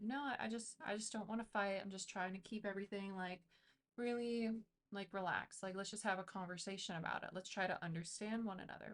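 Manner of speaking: soft, airy and calm, almost meditative. Shown as a demonstration. Reader demos how to talk softly to a fussing partner, soft and airy. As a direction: soothe an angry person by going soft. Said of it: "speak in a very airy, meditative way".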